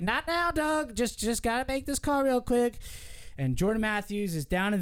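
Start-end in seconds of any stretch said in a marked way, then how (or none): 0.0-2.8 brushing off Doug. Retold or imitated. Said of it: "He's like".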